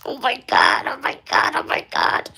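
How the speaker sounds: breathless, high whispered oh my God; excited whisper. Real, not acted. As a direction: gasp it out in excited disbelief. Excited gasp over discovery.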